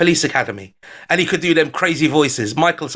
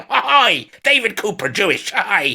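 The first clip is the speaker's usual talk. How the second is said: David Cooper impression; 2 semitones higher, slower than usual. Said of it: "let me do a David Cooper voice".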